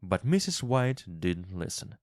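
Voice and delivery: usual speaking voice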